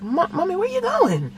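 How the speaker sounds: put-on high-pitched child voice; imitated questioning kids. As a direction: call after mom like a puzzled kid. Voices kids asking mother.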